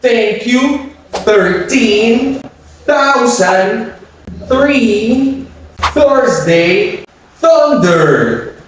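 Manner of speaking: over-careful TH with tongue out; exaggerated th practice. Shown as a demonstration. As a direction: drill each TH word slowly and clearly.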